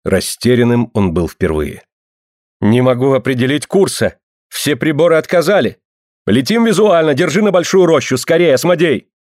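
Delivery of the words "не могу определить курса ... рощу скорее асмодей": urgent. Acted. Pilot panics, instruments failed.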